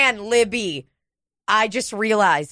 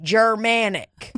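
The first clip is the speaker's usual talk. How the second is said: mock dim viewer; 3 semitones higher, slower than usual. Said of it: "people who are like".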